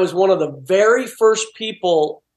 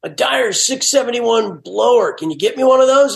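higher put-on customer voice, speeding up at the end; disguised prank-call voice; 4 semitones higher than usual. Prank-calling his brother-in-law in a higher disguised voice. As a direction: fake a stranger phoning the parts counter. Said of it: "I'd change my voice and I'd go".

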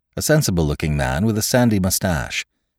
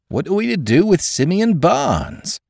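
much higher, urgent question; feverish; 13 semitones higher than usual. A narrator's reading. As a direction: demand it in a fever. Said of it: "cried Gibbs in a fever".

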